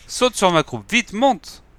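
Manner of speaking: high, loud urgent call to hurry; urgent shout. Acted. Wolf shouting to Ivan to mount up and flee, high urgent shout. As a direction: yell at him to jump on, fast. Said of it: "et lui cria".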